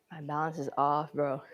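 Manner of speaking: winded, short of air; breathless after the set; out of breath. Real, not acted. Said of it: "I'm out of breath and shiz".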